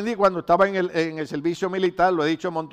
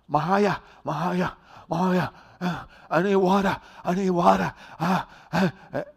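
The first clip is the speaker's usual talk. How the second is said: lightly imitating an American's English-accented Spanish; a hint of a tired American recruit calling out in an English accent; gringo accent. A hint of an American accent in an American recruit begging for water on a run. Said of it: "él no sabía pronunciar mi nombre".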